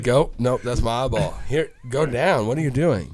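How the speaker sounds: fumbling with the mirror, half-panicked; mock panic.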